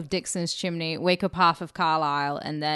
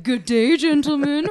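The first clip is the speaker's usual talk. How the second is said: higher, louder hammed-up toff; mock posh English gent; 9 semitones higher, 7 dB louder than usual. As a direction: wave the hanky, play a prim Englishman. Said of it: "we're like".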